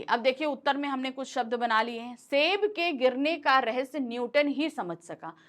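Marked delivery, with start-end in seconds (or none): 2.2-5.4 Newton ही lifted and pressed; stress on Newton. Shown as a demonstration. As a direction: hit Newton ही. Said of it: "Newton पर जोर दिया है".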